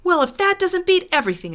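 loud, high, fast outburst; exclaiming. A narrator's reading. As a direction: burst out in exasperated disbelief. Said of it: "exclaimed Diggle".

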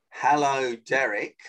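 unhurried phone greeting, name set apart; measured mirroring pace. Shown as a demonstration. Coach shows how to answer his call, measured pace. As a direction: greet the caller back in measured time. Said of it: "the same pace I do".

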